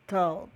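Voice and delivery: tall said as tow, low and falling; careful pronunciation. Shown as a demonstration. Teacher modelling taught for students, careful pronunciation. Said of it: "Olha a pronúncia".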